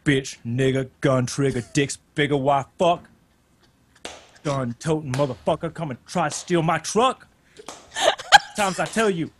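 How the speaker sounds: poetry recital in an imitated Black accent; punchy short lines with pauses, mock Black spoken-word voice. Shown as a demonstration. Caller recites poetry on request, putting on a Black voice. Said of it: "like, black voice".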